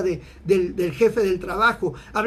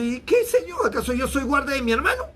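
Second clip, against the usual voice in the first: higher, defiant backtalk to God; insolent Cain; 4 semitones higher than usual. Acted. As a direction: toss the questions back rudely, hammed-up.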